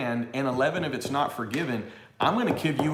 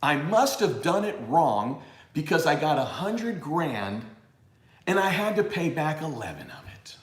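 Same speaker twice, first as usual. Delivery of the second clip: mock worrier; 2 semitones higher than usual. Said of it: "hear what you just said".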